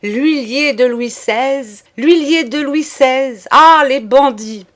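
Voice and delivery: high, loud exaggerated lament; clamoring. A narrator's reading. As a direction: cry it out with exaggerated grimaces. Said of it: "Joseph clamait avec d'atroces grimaces".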